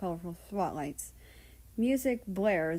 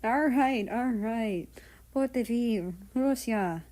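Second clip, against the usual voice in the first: chuckling; 3 semitones higher, 4 dB louder, slower than usual. Acted. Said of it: "he was chuckling".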